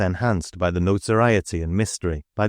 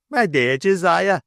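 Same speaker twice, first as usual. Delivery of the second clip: trembling plea; 10 semitones higher, 3 dB louder than usual. A narrator's reading.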